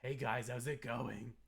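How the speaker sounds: lightly voiced playful yandere; fun yandere. Streamer greeting viewers as a fun yandere. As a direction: play a hint of yandere. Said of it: "like, a fun yandere".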